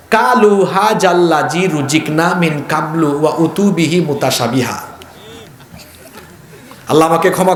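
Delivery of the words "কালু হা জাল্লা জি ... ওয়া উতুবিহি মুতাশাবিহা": imitating a Bengali-script reading of Arabic; mock bad recitation. Preacher mimics a student reading from Bengali script. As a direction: read it flat, in Bengali sounds. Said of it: "দেখেন বাংলায় কোরআন পড়লে তেলাওয়াতটা কেমন শোনা যায়".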